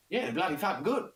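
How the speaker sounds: high Aussie impression of a bandmate; high-pitched Australian-style boast; imitated Australian accent. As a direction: cut in with mock Australian enthusiasm. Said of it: "Kev just cut across me. He goes".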